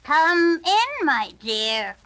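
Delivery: sweetest voice. A narrator's reading. Wolf disguised as granny coaxing the girl inside. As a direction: lure her in sweetly. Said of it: "in his sweetest voice".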